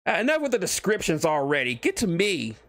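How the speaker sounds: barge in on the narrator; impatient Deadpool. Acted. Deadpool heckling the author to skip ahead, pushy and high.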